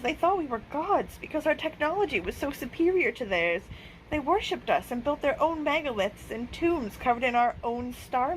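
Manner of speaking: lightly voiced alien revealing history; alien elder explaining. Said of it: "Hash said".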